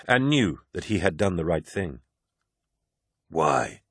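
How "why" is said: hissed. Acted. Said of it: "hissed Loken".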